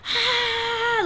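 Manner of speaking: high, soft imitated squeal; mock scream. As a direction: act out a scream without the volume. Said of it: "like, screaming".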